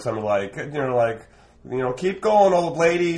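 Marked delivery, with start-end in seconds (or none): 1.9-3.2 a high, loud taunting call; mocking heckle. Street performer jokes at an old lady, high mocking call. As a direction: jeer her on her way like a cheeky clown. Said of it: "I make a joke".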